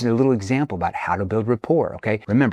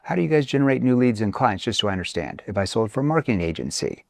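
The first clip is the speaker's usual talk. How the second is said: inquisitive, interested question; curious tone. Shown as a demonstration. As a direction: ask like you genuinely want to know. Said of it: "That's a curious tone".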